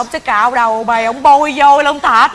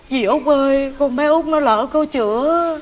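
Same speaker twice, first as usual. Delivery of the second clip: softer, slow confiding; hushed secret; 7 dB quieter than usual. Acted. Mother telling the aunt the secret, hushed. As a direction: let the secret out under your breath.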